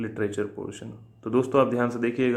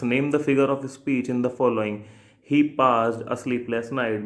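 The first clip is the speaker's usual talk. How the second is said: slow question reading; much slower than usual. Shown as a demonstration. Teacher reading an exam question to students, slowly.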